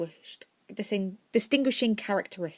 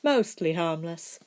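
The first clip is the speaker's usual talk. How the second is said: smirking; slower than usual. Acted. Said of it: "amended with a smirk".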